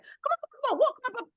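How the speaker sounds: very high sing-song coaxing; coaxing call. Retold or imitated. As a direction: call it out like luring a pet toward you. Coaxing a dolphin to come.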